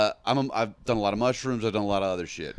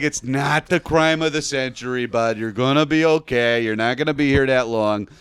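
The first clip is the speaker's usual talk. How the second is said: friendly Canadian cop; 5 dB louder than usual. Retold or imitated. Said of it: "they were so Canadian about it".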